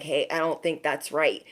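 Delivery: low, soft inner voice; gentle nudge. Acted. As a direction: nudge them softly, like quiet intuition. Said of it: "our intuition will kinda nudge us".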